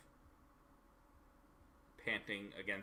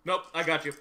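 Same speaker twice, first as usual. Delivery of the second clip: gloating; 6 semitones higher, 11 dB louder, faster than usual. Real, not acted. Player gloats over won roll.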